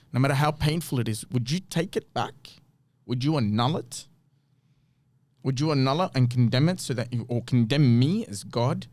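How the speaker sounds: divine sarcasm. Retold or imitated. Preacher voicing God challenging Job, with mild sarcasm. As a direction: needle him with questions he cannot answer. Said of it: "this is divine sarcasm to say".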